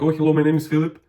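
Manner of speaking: mock a breezy self-introduction; self-focused greeting. Shown as a demonstration. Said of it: "instead of you saying".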